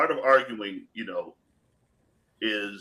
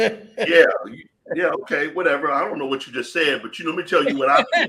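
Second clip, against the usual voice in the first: louder, laughing, dismissive retort; dismissive brush-off; 4 semitones higher, 5 dB louder than usual. Retold or imitated. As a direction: shrug off the big words. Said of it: "and I'm like".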